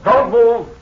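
sudden loud barked order; shouted command. Acted. Villain shouting a threat at the hidden captain.

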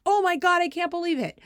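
high-pitched imitation of shocked regret; dismayed disbelief. Coach hearing he missed the game, retold dismay. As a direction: act out an appalled gasping reaction.

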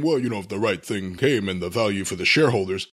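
low mock executive. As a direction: drone it like a cagey CEO. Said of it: "And then it became".

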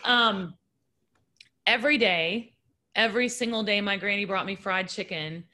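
real tears held back; crying, worn out. Real, not acted. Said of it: "I can't stop crying".

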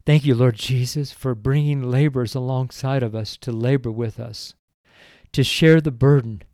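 earnest spoken prayer to the Lord; fervent closing prayer; heartfelt prayer. Acted. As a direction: pray it to Jesus with devotion.

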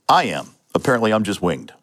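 joking through a laugh; laughing off a gunshot; wry laugh. Retold or imitated. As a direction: make light of the wound, chuckling. Wounded sergeant jokes on radio.

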